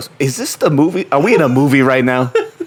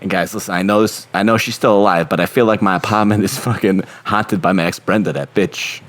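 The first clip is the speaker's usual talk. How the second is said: put-on Boston accent. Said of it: "is that Boston?".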